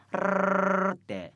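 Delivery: ルルルルルル with the tongue trilling; rolled r. Shown as a demonstration. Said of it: "舌を". (巻き舌でルルルルルル)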